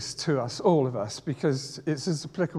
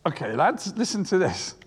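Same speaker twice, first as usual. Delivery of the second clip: imagined Jesus; 5 dB louder than usual. Retold or imitated. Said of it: "I can imagine Jesus at this point saying".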